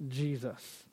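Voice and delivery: slow, disdainful rejection; slow scornful refusal. Retold or imitated. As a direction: spit it out slowly in contempt. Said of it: "with that same attitude to say".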